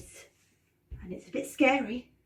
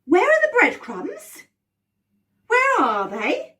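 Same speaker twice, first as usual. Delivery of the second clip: much higher, slow, anxious calling; worried searching; 9 semitones higher, 7 dB louder, slower than usual. Acted. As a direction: call out, alarmed, searching the path. Searching for lost breadcrumbs.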